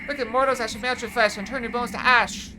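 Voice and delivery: loud, menacing villain declaiming a curse. Acted. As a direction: threaten the mortals like an evil sorcerer. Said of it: "That was you, Zarek".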